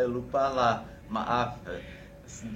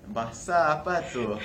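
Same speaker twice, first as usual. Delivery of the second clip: puzzled friends; 6 semitones higher, 5 dB louder than usual. Retold or imitated. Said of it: "dan mereka pikir".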